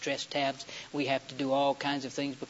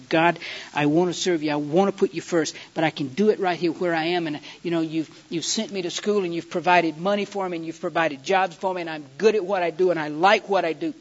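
louder, insistent bargaining in retold prayer; re-enacted pleading, building in force; begging God; 5 dB louder than usual. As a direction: argue your case to God, pressing each reason. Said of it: "as I begged God".

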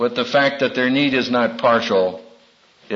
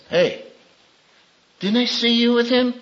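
put-on little girl asking; 7 semitones higher than usual. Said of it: "One little girl says".

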